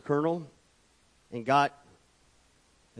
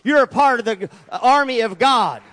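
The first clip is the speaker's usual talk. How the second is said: louder, higher insistence on "part"; God's firm voice; 7 semitones higher, 9 dB louder than usual. Retold or imitated. God reminding the churchgoer of church duty, louder and insistent. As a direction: press it home, each word heavier. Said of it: "God is saying".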